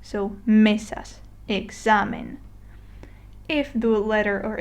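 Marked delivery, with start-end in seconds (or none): 0.4-1.2 mesas said slowly, stress on ME; next-to-last syllable stressed. Shown as a demonstration. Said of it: "you stress the next to last syllable". 1.5-2.4 examen stressed on the middle XA; next-to-last syllable stressed. Shown as a demonstration. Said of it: "you stress the next to last syllable".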